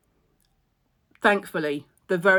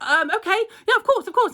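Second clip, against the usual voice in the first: high laughing reply, much higher; 14 semitones higher, 3 dB louder than usual. Retold or imitated. Team member laughing while agreeing with her. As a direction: giggle out the agreement. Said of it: "And they were like".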